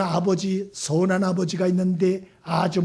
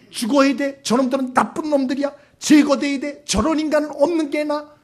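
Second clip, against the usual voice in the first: raised-pitch, indignant listing of offenders; condemning rant; 4 semitones higher than usual. Acted. Preacher voicing a prophet condemning the Ninevites, acted indignation. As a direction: build a righteous grievance, phrase after phrase.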